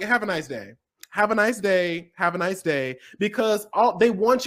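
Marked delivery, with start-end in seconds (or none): 0.0-3.0 deadpan brush-off; flat dismissal. Retold or imitated. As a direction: brush them off on repeat. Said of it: "is just be like".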